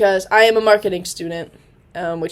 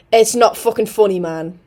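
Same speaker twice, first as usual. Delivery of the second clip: a light British accent, the one line she can do; 4 dB louder than usual. Shown as a demonstration. Showing viewers her roommate's British line, light British accent. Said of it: "But see, that I can do".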